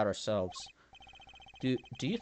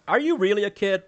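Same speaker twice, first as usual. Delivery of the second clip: incredulous teasing; 7 semitones higher, 10 dB louder than usual. Real, not acted. Player teasing character.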